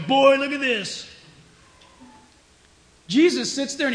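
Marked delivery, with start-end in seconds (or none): 0.0-1.1 slow, louder, higher mocking voice; a drawn-out, loud taunt from the accuser; gloating Satan. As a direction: savour the evidence like a smug accuser. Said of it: "Satan is going".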